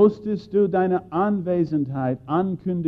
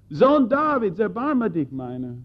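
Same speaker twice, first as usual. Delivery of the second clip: blind beggar's cry; 8 semitones higher than usual. Acted. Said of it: "der blinde Bettler schrie".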